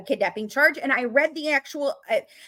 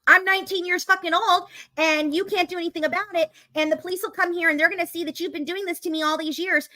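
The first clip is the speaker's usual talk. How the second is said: defiant daughter; 4 semitones higher than usual. Retold or imitated. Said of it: "Does Gypsy say".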